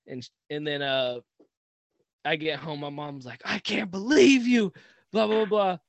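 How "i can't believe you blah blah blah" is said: mock outraged mom, high and loud; loud, higher-pitched mock telling-off; imitated scolding mom. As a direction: put on a mother's raised scolding voice. Mom scolding him on getting home.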